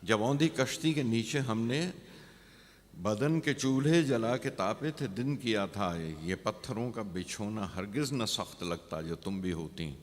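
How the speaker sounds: verse lifted on the repeat, falling at the end; poem recitation. Acted. Poet recalls a winter night to the beloved, measured recitation.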